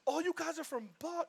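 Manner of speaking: high-pitched, over-keen attempt at a Boston accent; mock Boston accent. Imitating Angelenos who spot Bostonians, mock Boston accent. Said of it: "trying to do the accent too".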